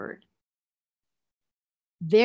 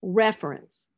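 REFERENCE as REF-er-ence; stress on first syllable. Shown as a demonstration. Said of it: "the stress will be on the third from the end".

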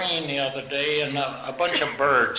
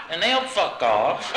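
laughing punchline; 2 semitones higher than usual. Retold or imitated. Old lady's punchline, laughing.

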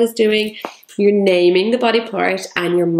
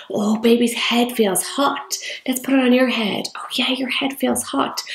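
gentle pretend play; 5 semitones higher than usual. Shown as a demonstration. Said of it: "put it on baby's head and say".

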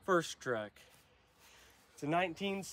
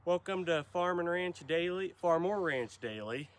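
panting between words; talking while catching breath; 3 semitones higher than usual. Real, not acted. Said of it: "and I'm out of breath".

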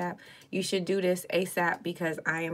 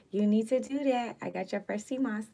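excited; 4 semitones higher than usual. Real, not acted.

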